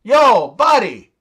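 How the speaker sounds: mock Canadian yell. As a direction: call out in exaggerated disbelief. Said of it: "the Canadian guy yells".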